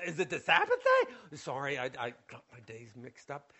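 soft, embarrassed answer with nervous laughs; sheepish mumble. Acted. Healed man answering the accuser, sheepish and soft. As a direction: mumble apologies, caught out.

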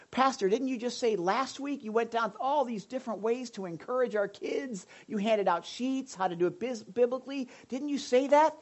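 objecting congregant. Pretend. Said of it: "imagined objecting congregant".

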